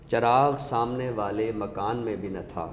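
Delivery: measured ghazal recital, a touch of weight. Acted. Recites full couplet.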